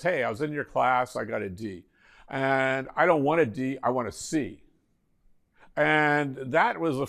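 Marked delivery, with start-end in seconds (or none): 0.0-4.6 matter-of-fact imitation of a student; understated student bluntness; blunt, no schmoozing. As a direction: state the complaint baldly, skipping the pleasantries. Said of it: "nothing like that. It's just".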